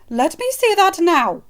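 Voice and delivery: loud, high, slow command; insist, no arguing; demanding. Acted. Mother demanding to see the bite.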